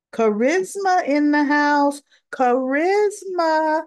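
Charisma drawn out high and slow; relishing the name, stretched; hyped-up emphasis. Real, not acted. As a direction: savour the word Charisma like an announcer. Hyping a charismatic character.

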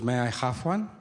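imitated mother's voice, asking. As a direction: put on your mother's way of talking. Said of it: "She goes".

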